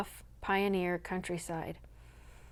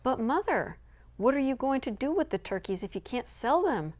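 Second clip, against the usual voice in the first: put-on higher, persistent child voice; 5 semitones higher than usual. Son pressing his mother about the turkeys, persistent. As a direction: press the question like a boy. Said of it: "persisted Tom".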